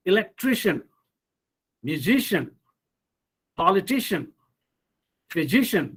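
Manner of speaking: elecTRIcian, muSIcian, poliTIcian, phySIcian; stress before the suffix. Shown as a demonstration. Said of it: "the syllable that comes immediately before these suffixes".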